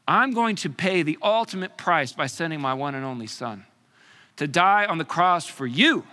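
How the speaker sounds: loud, slowed on so angry, burning resolve; God answering grief with fierce love; furious God. Acted. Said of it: "He says".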